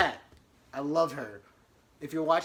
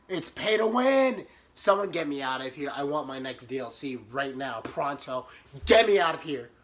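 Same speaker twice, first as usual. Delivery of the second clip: mock tantrum; 4 dB louder than usual. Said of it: "temper tantrum in my head".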